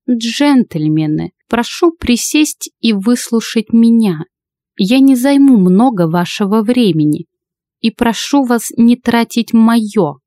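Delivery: slow, measured and commanding; stern old lady. Acted. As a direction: address the gentlemen coolly. Old lady addresses club.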